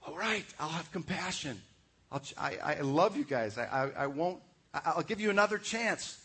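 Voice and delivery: parent's compassion. Retold or imitated. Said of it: "like a parent".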